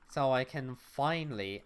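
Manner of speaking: "finally" punched with extra emphasis; stress on FINALLY. Real, not acted. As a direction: lean hard on "finally". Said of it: "emphasis on the word finally".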